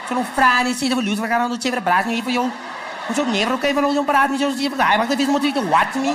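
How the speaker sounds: quick-fire mock Cape Town street talk; rattled-off Cape Town slang. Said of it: "they just rattle off".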